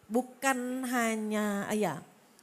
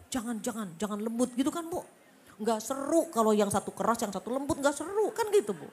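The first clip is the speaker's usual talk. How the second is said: louder, egging-on devil's whisper turned pushy; tempting devil; 4 dB louder than usual. Retold or imitated. Satan urging the wife to shout back, mock goading. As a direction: goad her like a sly devil. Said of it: "Tapi kata setan".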